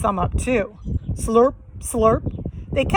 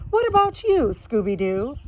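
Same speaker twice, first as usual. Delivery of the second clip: Velma voice; 3 semitones higher than usual. Acted.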